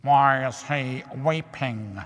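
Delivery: a lightly voiced slow little lizard; the lizard asks, mildly puzzled; curious lizard. A narrator's reading.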